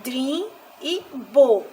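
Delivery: "drim e bo" slow, each syllable set apart; isolated stressed syllables. Shown as a demonstration. Teacher picking out tonic syllables, slow and separated. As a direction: pronounce "drim" and "bo" as separate, deliberate beats. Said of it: "é a penúltima".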